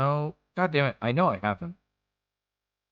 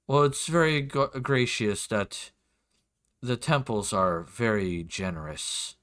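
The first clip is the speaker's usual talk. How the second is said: a hint of a courtly nobleman; measured, formal courtesy with pauses; lord's voice. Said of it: "do my best for his voice".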